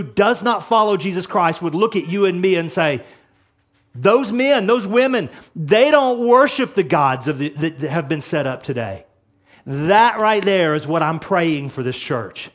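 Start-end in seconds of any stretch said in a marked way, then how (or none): 3.9-9.0 accusing onlookers. Retold or imitated. World voiced as accusing onlookers.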